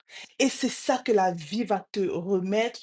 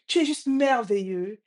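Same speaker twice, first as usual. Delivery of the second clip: lightly raised, emphatic praise; father's call; 3 semitones higher, 3 dB louder than usual. Retold or imitated. Father praises the echo, lightly calling out. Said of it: "Il dit".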